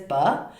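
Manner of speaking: "ba" with the pitch going up; rising tone. Shown as a demonstration. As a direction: lift the tone on "ba" like a suggestion. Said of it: "a tone going up like this".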